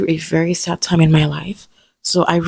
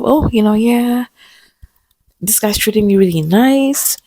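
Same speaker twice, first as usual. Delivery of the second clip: giddy; 4 semitones higher than usual. Retold or imitated. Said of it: "I'm feeling myself".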